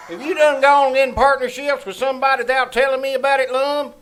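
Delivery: indignant outburst. Acted. Abner indignant at Lum.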